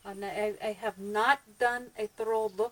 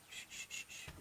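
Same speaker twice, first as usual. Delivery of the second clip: shushing; 16 dB quieter than usual. Real, not acted.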